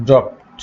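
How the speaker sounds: "ড্রপড" said as "dropt"; final -ed as T. Shown as a demonstration. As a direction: close "ড্রপড" on a voiceless t. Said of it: "ইডির উচ্চারণ হবে ট". ("ড্রপড"-এর শেষে ট উচ্চারণ)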